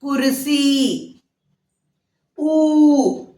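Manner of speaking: गीता drawn out very slowly, syllable by syllable; slow classroom enunciation; slow teaching demo. Shown as a demonstration. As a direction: spell out गीता slowly for children. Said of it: "छोटी ऊ की मात्रा के शब्द".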